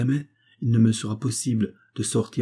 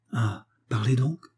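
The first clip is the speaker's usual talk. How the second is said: impatient. A narrator's reading. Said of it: "dit Bluette avec impatience".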